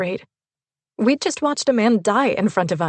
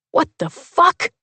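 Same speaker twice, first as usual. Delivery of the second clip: stunned disbelief; 10 semitones higher, 5 dB louder, slower than usual. A narrator's reading. Stunned after the killer drives off.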